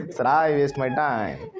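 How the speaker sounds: drawn-out, mock-cheerful confession; mock happy. Student telling sir about wasting time, mock-happy and stretched. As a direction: imitate a student gladly owning up, slowly. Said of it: "इतना खुश होके बताया".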